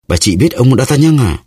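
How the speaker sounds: put-on young woman gasps the name out in shock; surprised cry. A narrator's reading. Startled young woman crying out as Melody names D'Artagnan. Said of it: "Thiếu phụ kêu lên như vậy".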